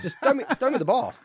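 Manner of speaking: high, failed Mexican accent attempt; half-hearted Mexican accent; not quite Mexican accent. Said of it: "That wasn't a Mexican accent".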